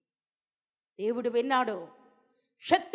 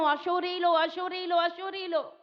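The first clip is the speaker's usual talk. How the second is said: అశూరీయులు pressed each time; repeated emphasis; 3 semitones higher than usual. Shown as a demonstration. Preacher pressing the enemy's name on listeners. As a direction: hammer అశూరీయులు three times. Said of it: "నొక్కి నొక్కి చెప్తున్నాను".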